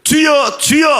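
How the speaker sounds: high shouted plea to the Lord; desperate cry. Acted. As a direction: cry out urgently for help, pitched high. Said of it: "그 제자들이 예수님".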